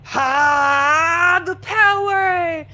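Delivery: put-on high, loud, heroic kid voice; kid superhero play. A boy pretending to be Captain Spirit, heroic and loud. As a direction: call out the powers like a cartoon hero. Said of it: "be like".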